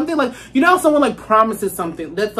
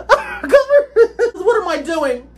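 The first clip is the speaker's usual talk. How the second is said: laughing; 7 semitones higher, slower than usual. Real, not acted. Laughing at herself.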